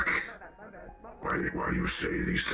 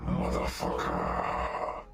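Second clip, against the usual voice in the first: dramatic inflection. Acted. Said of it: "You like the inflection on".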